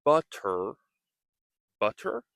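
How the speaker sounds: butter, D-like T; flap T demo. Shown as a demonstration. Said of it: "we can practice saying".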